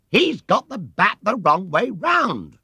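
high, loud, slow indignant yell; yelled complaint. A narrator's reading. Smasher Knowles yells at Paddington in outrage. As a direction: protest loudly to the umpire. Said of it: "yelled Smasher Knowles".

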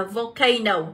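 "volcano" stressed on CA; stress on second syllable. Shown as a demonstration. Teacher reading option C, "volcano" stressed on its second syllable. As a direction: lean on the diphthong in the middle of "volcano". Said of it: "trọng âm và âm A là âm số hai".

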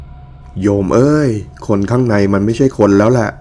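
a hint of a grave old monk, slow; lightly voiced monk warning, in earnest; serious monk. Monk warning the wife about the ghost, slow and grave. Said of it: "สีหน้าตอนนั้นท่านดูจริงจังมาก".

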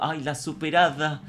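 slow, drawn-out sneer; exaggerated exasperated mockery; mocking disdain. Real, not acted. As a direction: jeer at someone acting superior. Mocks a commenter who acts superior.

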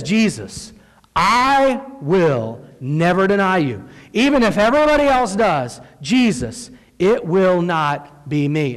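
solemn, drawn-out pledge of loyalty; emphatic vow. Acted. Peter swearing loyalty to Jesus, emphatic. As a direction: stretch I and WILL out slowly.

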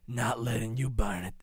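hint of a menacing villain; S0 tries the villain line in his own take. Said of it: "I was gonna talk like this the whole time".

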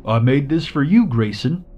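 muffled through a window, high. Acted. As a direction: speak as if behind glass, muffled. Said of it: "his muffled voice said".

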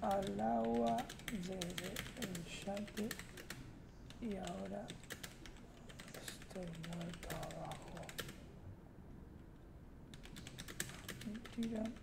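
quiet muttering. Real, not acted. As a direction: mumble it to yourself, defeated. Dead in game, muttering.

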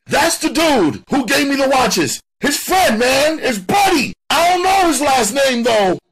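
very high, loud panicky voice; frightened confession. A narrator's reading. Suspect telling detectives about the watches, frightened high voice. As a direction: spill it out high and scared. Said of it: "Sam's voice was etched with fear".

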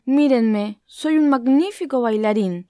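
the elephant bragging about his dancing; boasting. Acted. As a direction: strut as you say it. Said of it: "alardeó el elefante".

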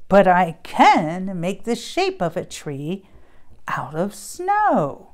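lively storybook read-aloud with character voices; reading to children. Acted. Mom reading a Christmas book to kids. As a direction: read it like bedtime story time.

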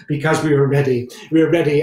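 proud declaration. Acted.

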